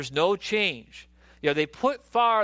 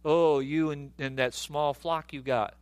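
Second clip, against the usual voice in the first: lightly acted scornful jibe, pitched low; belittling older brother; 5 semitones lower than usual. Older brother belittling David's small flock, mock scornful. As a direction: talk down to a kid brother, low. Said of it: "like David's older brother Eliab".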